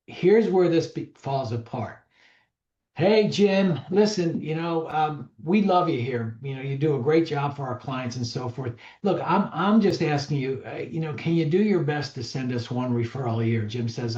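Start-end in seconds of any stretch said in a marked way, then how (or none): 3.0-13.6 casual, breezy, offhand pitch for a favor; lame ask. Shown as a demonstration. Agent asking Jim for referrals, the lame breezy way. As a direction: toss off the request lightly, no weight behind it. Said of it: "Uh, that's lame".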